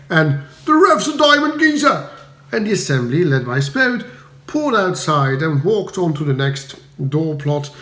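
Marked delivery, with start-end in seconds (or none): 0.7-2.1 high, loud cockney cheer; loud Cockney villager shout. A narrator's reading. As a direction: bellow it from the crowd. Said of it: "received with shouts of".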